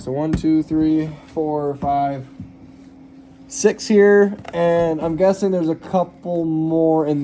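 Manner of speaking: talking while lying on your back under a car; strained voice from working under a car. Real, not acted. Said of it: "So right now I'm under the car".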